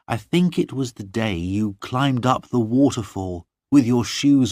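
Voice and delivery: pledging herself to John; serious Lorna. Acted. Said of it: "very seriously".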